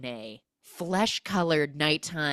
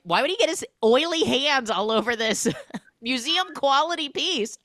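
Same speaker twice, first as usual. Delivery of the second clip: much higher, louder mock-indignant voice; mock outrage; 10 semitones higher, 6 dB louder than usual. Friend Emily mocking the scene, high indignant squeal. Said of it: "she's like".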